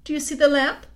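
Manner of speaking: lightly voiced queen, coaxing and sweet; a hint of a sly, honeyed queen; queen coaxing the boy gently. A narrator's reading. Queen speaks.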